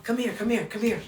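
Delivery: hushed movie quote. Retold or imitated. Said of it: "someone that says".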